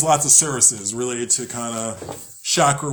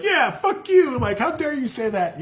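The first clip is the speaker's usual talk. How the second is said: mock angry retort; 11 semitones higher than usual. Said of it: "we can be like".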